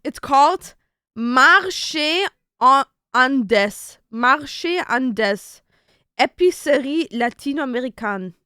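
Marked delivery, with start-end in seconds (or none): 1.1-8.3 French pronunciation of the shop name; careful French-accented name reading. Real, not acted. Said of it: "Your French accent was so good there".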